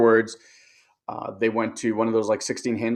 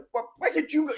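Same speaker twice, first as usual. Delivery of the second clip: much higher, exasperated retort; irritated; 4 dB quieter, faster than usual. Retold or imitated. Husband irritated when his wife asks him to fetch her computer, exasperated. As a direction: snap back, fed up with the request. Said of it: "constant state of irritation".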